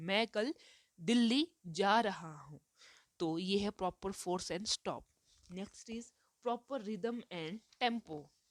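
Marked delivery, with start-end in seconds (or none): 0.0-2.6 stress on Delhi followed by a brief pause. Teaching proper force and stop in Hindi, stress on Delhi, then pause. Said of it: "इस answer में जो दिल्ली word है उस पे बल दिया जा रहा है, और उस बल देने के बाद जो विराम दिया लिया जा रहा है".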